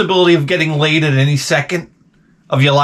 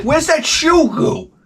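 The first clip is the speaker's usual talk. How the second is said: comic urgency; 12 semitones higher, slower than usual. Retold or imitated. Acts out hunting for glue.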